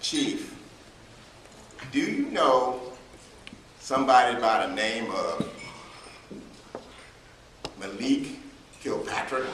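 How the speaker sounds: lightly imitated Southern assistant, halting with long pauses; a hint of a Southern drawl, retold; mock-confidential message in a light Southern accent; Southern belle accent. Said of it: "had a super Southern accent".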